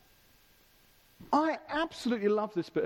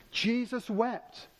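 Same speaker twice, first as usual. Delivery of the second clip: slow, measured restatement at normal pitch; deliberate, drawn-out emphasis; emphatic repeat; much slower than usual. Real, not acted. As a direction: repeat it slowly for the congregation to weigh. Repeats the verse to preach on it.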